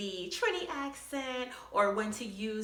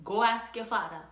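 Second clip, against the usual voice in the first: Trini mom line. Retold or imitated. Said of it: "that line".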